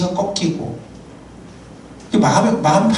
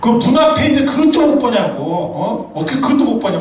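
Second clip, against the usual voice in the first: mock yell at a husband who missed it; 5 semitones higher than usual. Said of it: "소리를 지르고".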